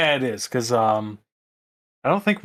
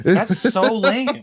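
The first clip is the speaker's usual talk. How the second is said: drawn-out disappointment; 7 semitones higher, much slower than usual. Real, not acted. Drawn-out complaint.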